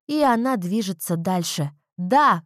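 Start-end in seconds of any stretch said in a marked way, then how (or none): 2.0-2.4 loud happy shout; shout of joy. A narrator's reading. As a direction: yell it out, thrilled. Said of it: "кричу я".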